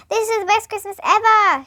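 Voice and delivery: put-on mildly excited girl's shout. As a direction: call it out gladly as Jenny. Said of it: "shouted Jenny".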